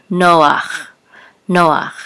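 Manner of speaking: "noach" as NO-ach, guttural ending; Hebrew pronunciation. Shown as a demonstration. Teacher models the Hebrew name, "noach" ending in throaty ach. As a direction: say "noach" with ach, not cha, at the end. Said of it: "and this is an ach".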